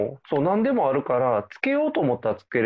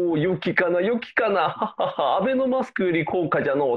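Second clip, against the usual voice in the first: put-on creaky wise old man; 4 semitones higher than usual. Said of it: "ってなるっていう".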